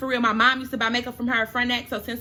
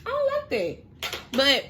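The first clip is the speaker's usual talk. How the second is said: pitched up, on the edge of crying; near tears; 4 semitones higher than usual. Real, not acted. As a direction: voice climbing as tears come. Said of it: "I be about to cry".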